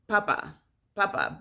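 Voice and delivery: "papa" said the English way, first syllable stressed; English pronunciation. Shown as a demonstration. Contrasting the common English word, "papa" stressed up front. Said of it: "the common English word is".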